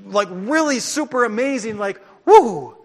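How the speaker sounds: high, loud mock cheer building to a whoop; mock hype. Preacher mocking a hyped faith, whooping. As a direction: ham up the overexcited believer.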